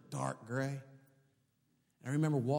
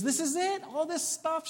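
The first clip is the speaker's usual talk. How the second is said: retold excitement; 3 dB louder than usual.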